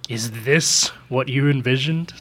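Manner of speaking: slow, mildly accusing mock monologue; accusatory. Agent Locke confronting a wounded Master Chief, mildly accusatory. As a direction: imitate an accuser, drawing the question out.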